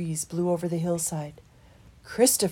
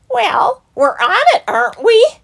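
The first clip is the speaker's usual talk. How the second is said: laughing reply; 14 dB louder than usual. A narrator's reading. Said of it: "they laughed".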